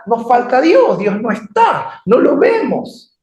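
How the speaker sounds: high, drawn-out despairing complaint; acted desperation. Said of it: "Empezaron a desesperar".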